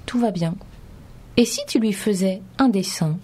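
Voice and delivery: put-on gentle read-aloud for small children; story narration. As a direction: read it like a bedtime book. Reads picture book aloud. (lecture d'histoire pour enfants)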